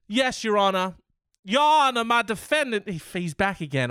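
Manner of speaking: high, hammed-up courtroom lawyer; a pompous lawyer addressing the judge; mock lawyer. Plays defense lawyer in court.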